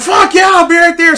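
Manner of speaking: high, loud, eager acceptance; overjoyed. Retold or imitated. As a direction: jump at the invitation, imitating a thrilled player. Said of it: "this guy was so happy".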